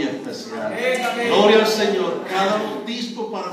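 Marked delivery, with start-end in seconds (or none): 1.3-2.2 praise shout. Real, not acted. Preacher exclaims praise.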